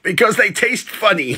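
punchline jumps high. Acted. Punchline delivered with rise.

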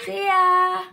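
loud and high, gushing; excited farewell. Real, not acted. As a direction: shout your love, thrilled. Fan's farewell to idol.

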